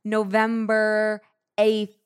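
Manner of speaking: November eighth spelled out slowly and deliberately; a corrected date said slowly and clearly; slow careful correction. Shown as a demonstration. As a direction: say it slowly so it sticks. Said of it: "let me repeat that".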